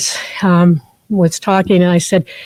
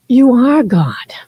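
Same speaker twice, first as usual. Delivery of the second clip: hushed; 4 semitones higher, much slower than usual. Acted. Quoting Goldsmith, hushed.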